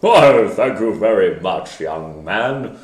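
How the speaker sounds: loud slow jolly Santa. Shown as a demonstration. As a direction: warm booming Father Christmas. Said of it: "Santa voice".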